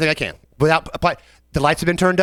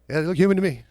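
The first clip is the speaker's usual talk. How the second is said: laughing; faster than usual. Retold or imitated. Kitchen guys joking.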